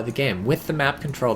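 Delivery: ordinary delivery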